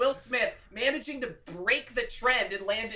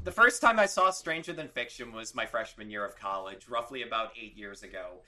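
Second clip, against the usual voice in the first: lower, calm storyteller narration; narratory voice; 8 semitones lower than usual. Shown as a demonstration. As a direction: narrate it like a documentary. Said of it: "I should do, like, a narratory voice".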